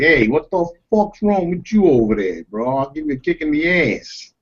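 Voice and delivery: lightly acted Italian-American street threat; imitated Italian-American tough. Recalling neighborhood Italians' threats, imitated Italian-American tough talk. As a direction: play a mild Italian-American tough guy. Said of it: "a lot of Italians that did that".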